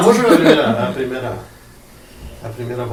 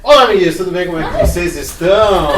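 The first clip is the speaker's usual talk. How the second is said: boas-vindas cantada e aguda; 4 semitones higher, 8 dB louder than usual. Acted. Host opens the show to camera.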